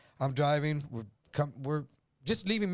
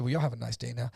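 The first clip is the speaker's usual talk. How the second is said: cool Doc Holliday drawl; 4 semitones lower, faster than usual. Retold or imitated. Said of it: "He's like Doc Holliday".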